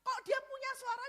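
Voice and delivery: usual speaking voice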